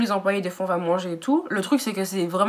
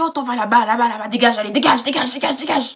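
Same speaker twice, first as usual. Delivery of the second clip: mock angry yelling; 3 semitones higher, 3 dB louder than usual. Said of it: "il s'énerve, il me dit".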